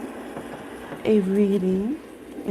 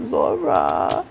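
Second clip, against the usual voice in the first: much lower mock dog voice saying "Zora"; imitating dog. Owner imitates her dog feeling sorry for itself, much lower mock whine. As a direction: say "Zora" like a sulky dog, drawn out and much lower with a rising end. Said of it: "she'll say".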